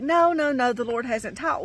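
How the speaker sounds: high, repeated refusal, easing off; retold protest. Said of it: "And I was like".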